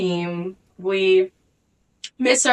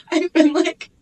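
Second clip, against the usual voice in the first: laughing; 9 semitones higher, 3 dB louder than usual. Real, not acted. Laughing while retelling.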